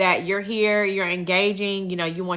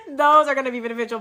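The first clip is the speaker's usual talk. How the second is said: laughing; 4 semitones higher, faster than usual. Real, not acted. Laughing after chicken paws.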